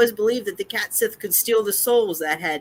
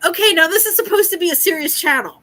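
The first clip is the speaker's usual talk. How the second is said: laughing; 12 semitones higher, 7 dB louder, faster than usual. Real, not acted. Laughing at the tangent.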